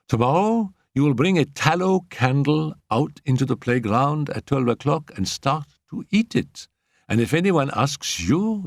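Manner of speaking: a hint of a giggling little girl plotting; gleeful schoolgirl. A narrator's reading. Annette gives orders.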